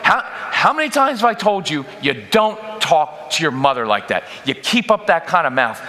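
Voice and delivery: a dad snapping at his son for mouthing off; angry dad. Acted. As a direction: fire back at the kid. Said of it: "I instantly react".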